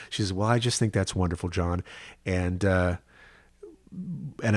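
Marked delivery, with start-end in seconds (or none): 0.3-1.8 a light touch of Texas, quick; just a hint of Texas twang; mother's milder Texas accent pleased at the news. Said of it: "My mother has a milder Texas accent".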